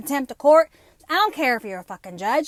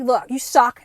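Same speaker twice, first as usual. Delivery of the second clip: blunt mock put-down; 6 dB louder than usual. Retelling telling off judge.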